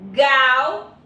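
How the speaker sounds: "gal" said as a separate second syllable; syllable alone. Shown as a demonstration. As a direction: set "gal" apart from "Mi". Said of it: "ao separar a sílaba". (sílaba "gal" isolada)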